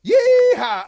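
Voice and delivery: very high, loud cowboy holler; rodeo whoop. Acted. Dog rides off on a goat, rodeo whoop. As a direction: whoop like riding a bucking goat.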